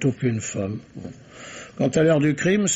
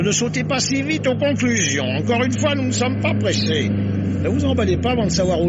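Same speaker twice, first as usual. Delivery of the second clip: pitched-up exasperated protest; 6 semitones higher than usual. Acted. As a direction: rein her in, voice pitched up. Inspector reins in eager companion.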